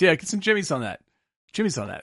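mock Boston order at the ice cream stand; Jimmy's said with a Boston twang; Boston accent. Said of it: "doing a Boston accent".

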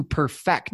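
"perfect" stressed on FECT; the verb "perfect", weight on its last syllable; stress on second syllable. Shown as a demonstration. Coach lists reasons to launch, stressing "perfect" on FECT. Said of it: "put the emphasis on the other syllable".

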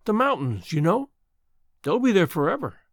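lightly voiced young woman, insistent; girl insisting. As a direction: reassure her the mountains remain. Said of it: "insisted the girl".

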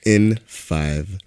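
slow, announcer-style intro; game show host. Acted.

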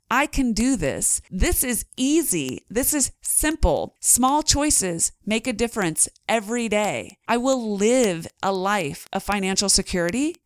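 calmly convince yourself you can do this; confident affirmation. Shown as a demonstration. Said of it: "Does that sound different to you?".

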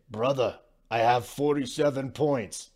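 a badly faked Serbian accent, barely shifted; half-hearted Serbian accent, lightly mocking; horrible Jokic accent. Host retelling Jokic's taunt to Gobert, bad Serbian accent. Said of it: "that's a horrible Jokic accent".

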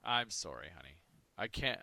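whining to his wife that he can't lift a thing; mock injured husband. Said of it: "you might play this up for a few months".

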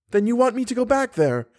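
high, cutting retort; high-pitched, wounding young woman; cruel. A narrator's reading. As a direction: throw the question back cruelly. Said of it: "said the young girl cruelly".

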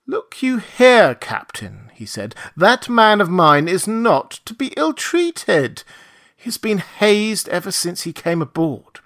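high, slow, insistent warning; firm angry warning. A narrator's reading. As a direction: confront him with cold anger. Montgomery confronts captain.

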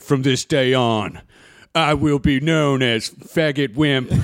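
slow, grand proclamation; mock solemn declaration. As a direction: announce it slowly like a solemn oath. Grand self-naming as adult.

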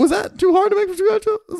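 high, sarcastic mock question; mock incredulous. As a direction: scoff at the kitchen. Mocking restaurant menu.

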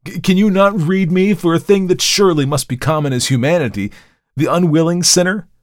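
loud, high-pitched, indignant pleading; impassioned plea. A narrator's reading. Markheim begs the visitor to look within, impassioned plea. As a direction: build urgent questions, begging to be understood.

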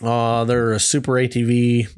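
choppy broken-up call audio; words dropping out over a bad connection; cutting out. Real, not acted. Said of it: "you keep cutting out".

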